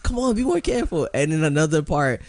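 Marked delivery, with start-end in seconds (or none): 0.0-1.1 high, louder hammed-up scold; mock scolding. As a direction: play the cop chiding his partner, pitched up. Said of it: "They're like".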